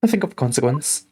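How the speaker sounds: hammed-up melancholy gentleman; gloomy detective. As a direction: moan it like a despairing genius.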